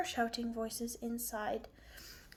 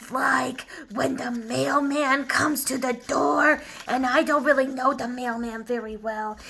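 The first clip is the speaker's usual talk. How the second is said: dog puppet, worked up; 7 dB louder than usual. Acted. Dog explaining mailman emergency to teacher, increasingly loud. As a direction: get more worked up as you explain.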